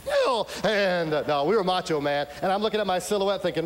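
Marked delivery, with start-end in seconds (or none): 0.0-0.5 very high, loud "Kill!"; shrill kill shout. Retold or imitated. Recruit lunging at a silhouette, very high shout. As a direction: yelp it at the top of the voice. Recruit kills at bayonet drill.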